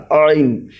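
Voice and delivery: عین with the ع squeezed from mid-throat; throaty ain. Shown as a demonstration. Teacher shows where the letter comes from, throaty عین. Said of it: "وہیں سے عین نکلتا".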